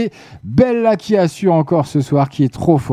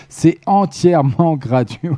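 laughing; slower than usual. Real, not acted. Host laughs while repeating.

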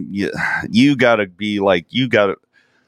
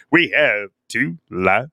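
lightly imitated talk show host; Donahue introducing band. Cohost mimicking Donahue introducing a rap group, stilted host imitation. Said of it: "He's like".

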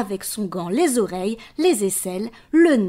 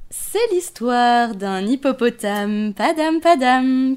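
put-on reading to children; 4 dB louder, slower than usual. A narrator's reading. Story refrain slowly.

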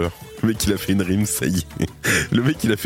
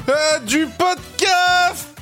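très haut et lent, étiré; voix suraiguë; much slower than usual. Pretend. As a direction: monte dans l'aigu en étirant. Bêtisier, voix aiguë. (voix suraiguë étirée)

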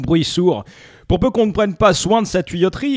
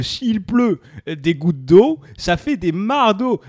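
put-on Lorraine accent; 3 semitones higher, slower than usual. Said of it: "comme il parle pas bien".

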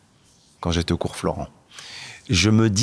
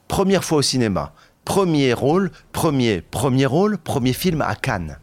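high, elated listing; rising with thrilled wonder; excited; 5 semitones higher than usual. Real, not acted. Recounting first film at Cannes.

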